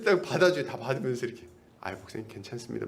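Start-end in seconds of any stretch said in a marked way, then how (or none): 1.8-2.9 soft, low calming voice; a quiet, steady pastor calming a colleague; calm reassurance. Retold or imitated. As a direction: soothe an upset caller. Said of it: "이런 게 되게 차분해요".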